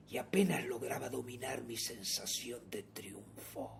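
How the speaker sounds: soft, hushed gothic narration; narración de terror. A narrator's reading. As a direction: confide the crime quietly, falling low. (narración de terror en voz baja)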